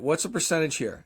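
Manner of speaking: flat, blunt demand about the cut; What's the percentage here said plainly and bluntly; blunt question. Shown as a demonstration. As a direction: ask it straight out, no softening. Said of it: "That's how I said it".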